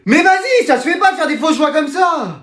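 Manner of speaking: high, wailing indignation; upset protest. Acted. Pupil's mark drops to one and a half, indignant wail.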